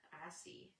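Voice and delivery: unvoiced whispered echo. Echoing herself to viewers in a whisper. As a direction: drop to a hushed whisper.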